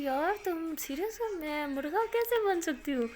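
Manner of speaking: can't believe she means it; incredulous. Acted. Disbelief at being told to squat. (حیرانی سے، اونچی اور آہستہ آواز میں)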